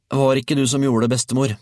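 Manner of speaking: put-on high, loud child's voice; boy shouting back. A narrator's reading. Georg protests to grandmother on the roof, high shout. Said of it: "ropte Georg tilbake til henne".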